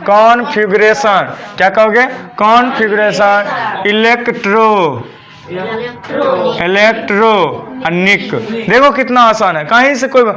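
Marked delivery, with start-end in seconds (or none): 3.9-8.3 "इलेक्ट्रो", long pause, then slow "इलेक्ट्रॉनिक"; broken into syllables. Shown as a demonstration. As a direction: stretch "इलेक्ट्रॉनिक" out piece by piece. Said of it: "word meaning को छोटा करेंगे syllable पर लेके". ("इलेक्ट्रॉनिक" को टुकड़ों में, खींचकर)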